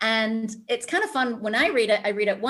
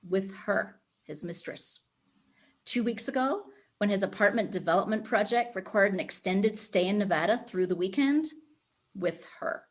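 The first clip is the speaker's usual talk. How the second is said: measured, even reading of a novel excerpt, pausing on key lines; story narration. Acted. Author reading her own novel to podcast listeners, steady narration. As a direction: read it like an audiobook.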